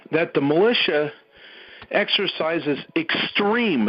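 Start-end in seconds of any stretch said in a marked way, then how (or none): 3.0-3.9 extreme drawn out slowly for weight; stress on extreme. Real, not acted. Speaker urging militia restraint, heavy slow stress on extreme. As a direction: lean hard on extreme, stretching it. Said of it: "cannot emphasize that word enough".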